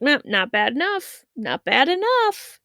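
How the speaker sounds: lightly voiced eerie stranger egging the kids on; mysterious stranger. Stranger demanding worse naughtiness.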